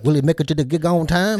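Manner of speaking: Dukes of Hazzard narrator. Retold or imitated. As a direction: narrate a cliffhanger over a car chase. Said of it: "like the Dukes of Hazzard".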